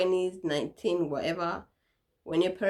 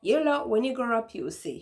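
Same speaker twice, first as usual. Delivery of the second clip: mom warning; 4 semitones higher than usual. Retold or imitated. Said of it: "she'll be like".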